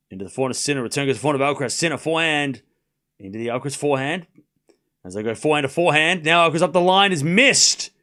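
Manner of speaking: quick tennis commentary calling each shot; live play-by-play. Acted. Fan calling the rally for a friend, brisk commentator voice.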